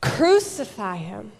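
forceful, repeated demand; crowd's shout. Acted. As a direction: call it out like an angry mob. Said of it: "They shouted".

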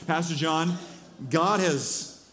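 lightly imitated Southern cowboy; a hint of a Southern drawl; Southern accent. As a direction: retell it in a mild Southern accent. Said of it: "that's my best accent".

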